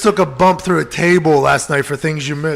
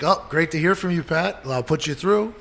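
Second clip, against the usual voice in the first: proper phone voice; 4 dB quieter than usual. Retold or imitated. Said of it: "you sound so proper".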